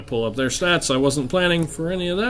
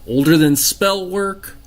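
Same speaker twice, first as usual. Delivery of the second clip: measured, portentous narration with long pauses; game master scene setting; 2 semitones lower than usual. Acted. Game master revealing a magical thing's secrets to players, measured and portentous. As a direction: unfold an ancient mystery phrase by phrase.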